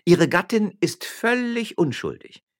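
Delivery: high, loud, slow declaration; calling out. Acted. Magistrate's wife defending the miller's wife, calling out. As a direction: proclaim it with emphatic force. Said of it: "rief die Frau Stadtrichter".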